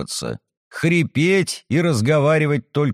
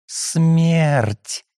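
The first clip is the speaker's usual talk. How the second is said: smiling; 3 semitones higher than usual. Acted. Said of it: "улыбнулась Софья".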